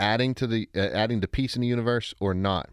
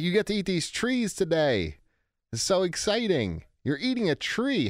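excited mom; 6 semitones higher than usual. Retold or imitated. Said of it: "she would get really excited".

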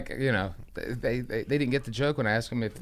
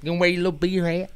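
higher-pitched mock condescension; belittling; 4 semitones higher, 5 dB louder than usual. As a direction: tease him like he's a little kid. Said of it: "Such a belittling thing".

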